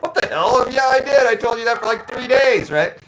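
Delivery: loud, high "what the hell, yeah I did"; exasperated husband insisting; frustrated husband protesting loudly to his wife. Retold or imitated. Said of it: "I'm like".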